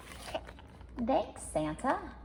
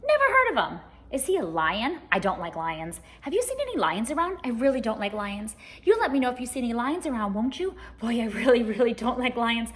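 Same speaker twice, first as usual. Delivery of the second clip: nervous zebra; 3 semitones higher, 4 dB louder, much faster than usual. Acted. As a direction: fret about lions, quick and jumpy. Talking zebra frets about lions.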